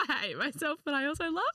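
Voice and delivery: hammed-up dramatic confession; mock dramatic. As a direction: overplay it like a reality show. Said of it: "I'll make it a bit more dramatic for you".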